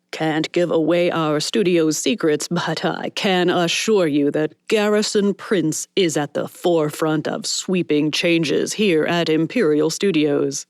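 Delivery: lightly voiced showman boss, unhurried; slick studio boss. Studio boss bragging to the press, lightly voiced showman. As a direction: sell it to the press like a studio mogul.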